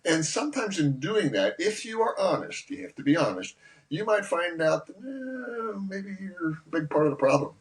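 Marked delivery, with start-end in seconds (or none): 5.0-5.8 high, soft, drawn-out "eh"; noncommittal, high-pitched hedge; hedging "eh". Acted. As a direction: draw out a doubtful "eh", up high. Hedging an uncomfortable self-admission.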